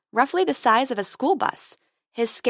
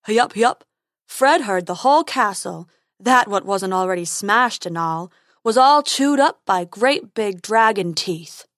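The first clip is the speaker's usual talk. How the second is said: slow, louder goofy unicorn; 6 dB louder than usual. Acted. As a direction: gossip like a silly unicorn.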